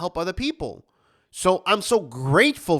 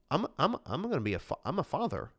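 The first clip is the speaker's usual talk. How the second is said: stunned hush; 8 dB quieter than usual. Retold or imitated. Stunned new father, inner voice.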